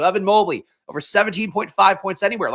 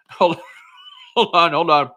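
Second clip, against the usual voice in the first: ordinary talk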